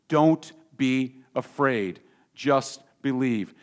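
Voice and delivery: measured, dramatic scripture reading with pauses. A narrator's reading. Pastor reading the Gospel to the congregation, measured scripture reading. Reads the Bible text aloud.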